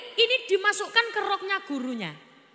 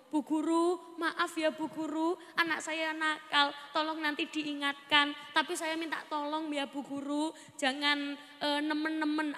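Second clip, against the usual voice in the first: polite request; 5 dB quieter than usual. Retold or imitated. Father politely asks teacher.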